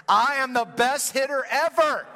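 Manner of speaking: put-on loud, slow, cocky child bragging; swaggering boast. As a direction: strut it, full of swagger. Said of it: "just with swagger".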